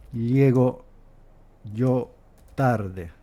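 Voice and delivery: put-on "llego yo tarde" with ll and y kept apart, like old Castilian; Paraguay pronunciation. Shown as a demonstration. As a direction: say "llego" with a palatal l sound. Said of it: "se pronuncia".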